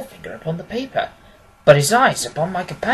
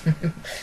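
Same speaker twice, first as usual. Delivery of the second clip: soft chuckle; 7 dB quieter than usual. Acted. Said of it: "Holmes chuckled".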